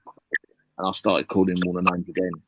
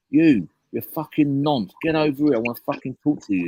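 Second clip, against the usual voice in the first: retold shouting; 7 semitones higher, 3 dB louder than usual. Driver reliving shouting abuse at the traffic cop, a mock yell. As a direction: bark it across the street. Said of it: "carried on shouting at him at the top of my voice".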